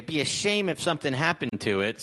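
sweet-talking threat, lightly voiced; smiling menacing loan shark. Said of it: "says, like, a thirteen-year-old Redditor".

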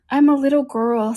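doubtful. A narrator's reading. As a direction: offer it unsurely, pitch lifted. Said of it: "said Alice rather doubtfully".

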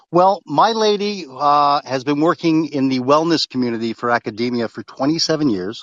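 choppy Bluetooth sound; breaking up on the line; clipping audio. Real, not acted. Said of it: "you are still clipping".

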